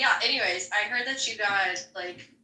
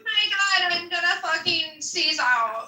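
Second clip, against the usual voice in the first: mock whiny voice; 5 semitones higher than usual. Mocking whiny attention seeker.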